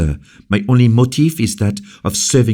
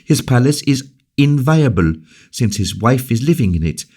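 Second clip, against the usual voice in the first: high, fast impassioned speech; passionate defense; 8 semitones higher than usual. Acted. La Valliere to Colbert, high passionate defense. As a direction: defend the guest with fire. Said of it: "passionate energy of her voice".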